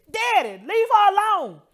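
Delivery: put-on high, loud little-girl voice, laughing through tears; young daughter telling her father to leave mom alone; five-year-old daughter. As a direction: plead like a small child to her daddy. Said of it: "and she said".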